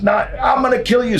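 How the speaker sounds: high, strained screamed threat; imitated screaming. Hurt wrestler threatening the fleeing prankster, screaming. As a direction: mimic a furious man screaming. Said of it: "He starts screaming".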